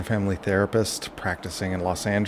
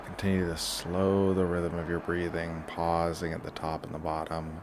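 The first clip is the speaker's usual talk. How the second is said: guided relaxation; 6 dB quieter than usual. Shown as a demonstration. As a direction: lead them gently through each breath. Leads a breathing relaxation.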